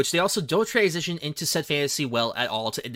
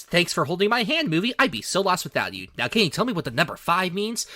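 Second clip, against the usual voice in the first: sarcastic; 5 semitones higher than usual. Retold or imitated. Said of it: "my first note of the movie was".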